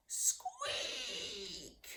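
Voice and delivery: a falling squeak that runs out of puff; squeaky roar attempt. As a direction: let the last squeak drop away. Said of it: "Ernie roared the loudest".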